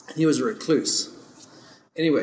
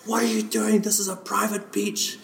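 high-pitched mock indignation; retold anger; 7 semitones higher than usual. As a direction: imitate an outraged celebrity telling someone off. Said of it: "she was so mad".

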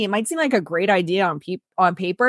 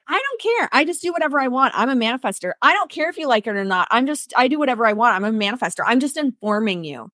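cocky; 3 semitones higher than usual. Retold or imitated. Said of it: "People were like".

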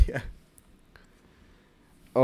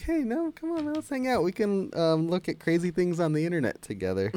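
Saul; 7 semitones higher than usual. Retold or imitated. Imitates Saul pleading to stay.

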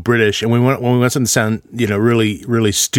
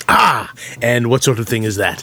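mock British accent. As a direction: put on a British accent, playing baffled by technology. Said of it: "with a British accent".

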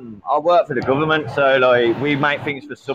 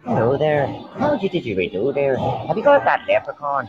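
hammy attempt at an Irish accent. Showing off for the other players, mock Irish accent. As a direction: put on a stage-Irish leprechaun lilt. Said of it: "I can do an Irish accent".

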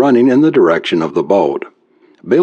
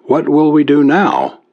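thin, wavering, higher voice; 6 semitones higher than usual. Acted. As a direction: try to sound calm but waver. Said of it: "her voice sounded thin and wavering".

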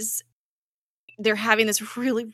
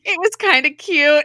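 high, loud playful flirting; retold flirt; 8 semitones higher, 8 dB louder than usual. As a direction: imitate her flirty reply, pitched up. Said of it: "this is the first knowingly intentional flirt".

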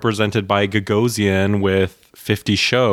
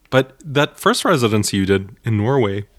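burping the words; 2 semitones higher than usual. Real, not acted. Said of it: "I'm doing my Wendy burp".

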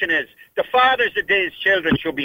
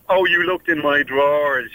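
mocking snowflake whine; 4 semitones lower, slower than usual. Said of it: "these snowflake".

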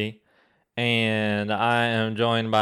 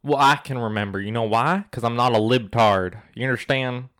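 light put-on Southern accent, ranting; a hint of a Southern accent for a mock rant; 2 semitones higher than usual. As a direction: play a Southern conspiracy ranter in a mild Southern accent. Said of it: "talking in a Southern accent".

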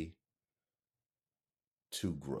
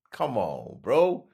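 usual speaking voice

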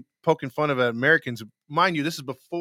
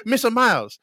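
higher-pitched fake Asian accent; mock Asian accent; 6 semitones higher, 3 dB louder than usual. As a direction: call out in a put-on Asian accent. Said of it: "be freaking racist".

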